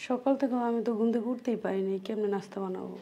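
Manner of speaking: very soft, low-pitched excuse; feeling unwell. Acted. Unwell young wife explaining she could not get up, weak. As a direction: answer quietly, drained by a sleepless night. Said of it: "শরীরটা তো ভালো না".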